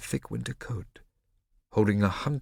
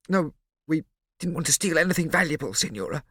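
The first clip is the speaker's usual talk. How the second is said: halting; 9 semitones higher, 6 dB louder than usual. A narrator's reading. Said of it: "Hornet said haltingly".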